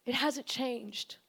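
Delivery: hushed whisper, unvoiced; a grave whispered warning about the enemy. Real, not acted. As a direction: lean in and whisper it.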